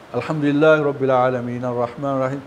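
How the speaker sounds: a lightly done imitation of Quran recitation; imitating recitation. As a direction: mimic an imam reciting, but without much weight. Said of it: "যদি বিশুদ্ধ পড়ে". (হালকা করে ইমামের তিলাওয়াতের নকল)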